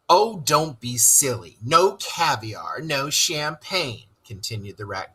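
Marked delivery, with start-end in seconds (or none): 0.1-4.1 grinning. Acted.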